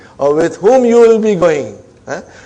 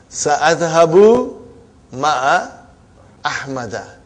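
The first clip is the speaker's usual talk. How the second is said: slow model reading; slower than usual. Shown as a demonstration. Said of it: "teacher modelling the sentence".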